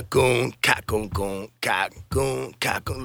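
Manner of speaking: vocal kick and snare pattern; imitated drum beat. Musician showing a simple groove, imitated drum beat. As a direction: mouth the drum hits in rhythm. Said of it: "I just kick, snare".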